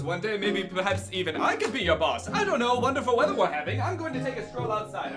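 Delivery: hammy parody of the secretary's exit; mock villain paraphrase. Reviewer mocking the secretary's rushed exit, hammy. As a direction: ham it up as the smug secretary. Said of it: "mocking the movie's exit line".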